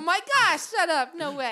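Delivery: high, loud playful disbelief; teasing, over-the-top surprise; mock shock. Real, not acted. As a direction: gasp it out like a scandal. Teasing disbelief about handwashing.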